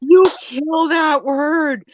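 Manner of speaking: drawn-out, playful rant at the screen; mock exasperated yelling. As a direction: yell it in comic despair. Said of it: "I'm yelling at you through the screen".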